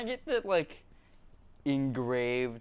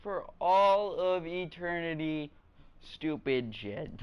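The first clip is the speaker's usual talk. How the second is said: slow mock grand speech; mock solemn; slower than usual. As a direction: orate slowly and pompously.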